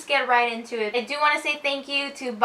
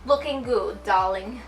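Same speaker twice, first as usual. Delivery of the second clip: put-on a light, half-hearted British accent; attempted British accent; 2 semitones lower than usual. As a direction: try a posh British accent, barely shifting the voice. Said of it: "I don't know how to make a British accent".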